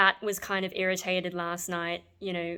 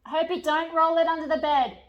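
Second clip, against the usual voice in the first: pet-talk voice; 9 semitones higher, 6 dB louder than usual. Real, not acted. Scolding the pet.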